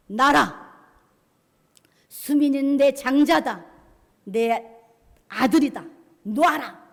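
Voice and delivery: loud commands in short bursts; forceful, protective bellow with pauses; God rebuking. Acted. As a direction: shout it as a divine rebuke. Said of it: "하나님이 꾸짖으십니다".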